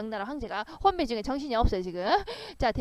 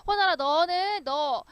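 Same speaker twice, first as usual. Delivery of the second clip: shouting; 5 semitones higher than usual. Acted. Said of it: "막 크게 소리치면서".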